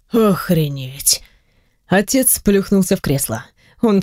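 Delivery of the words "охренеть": slow breathless whisper of shock; stunned whisper. A narrator's reading. Hero whispers to himself on hearing the news, slow and stunned. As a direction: barely voice it, slowly, stunned. Narrator's stunned inner reaction.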